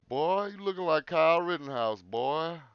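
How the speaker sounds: mock redneck taunt. Taunting the Democrats in a hammed-up redneck voice. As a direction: jeer like a backwoods bully.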